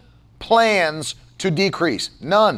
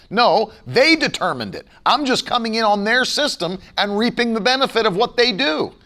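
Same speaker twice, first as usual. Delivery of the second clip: ordinary delivery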